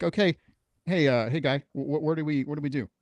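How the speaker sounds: a lost newbie asking the specialist what to do; flustered asking. Retold or imitated. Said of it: "They're like".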